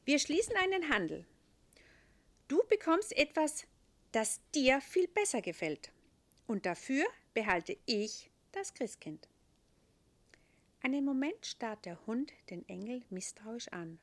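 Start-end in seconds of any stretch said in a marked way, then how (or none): 0.0-9.3 angel voice. A narrator's reading. Angel character.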